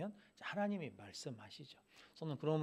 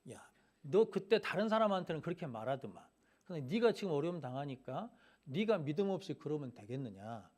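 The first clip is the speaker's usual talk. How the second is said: mild mock telling-off, pitched up at the start; retold scolding. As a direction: voice Eliphaz taking Job to task, without full anger. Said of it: "그러면서 이제 야단치는 거거든요". (남을 나무라는 말을 옮기듯 가볍게 야단치는 말투)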